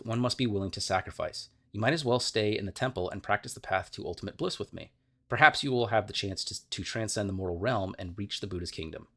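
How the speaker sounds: steady storytelling read of game lore; story narration. Acted. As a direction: tell it like a fireside tale. Reads game lore aloud.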